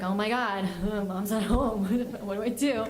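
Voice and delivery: laughing through dad's mild panic; mock helpless dad. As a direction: play a flustered dad, chuckling.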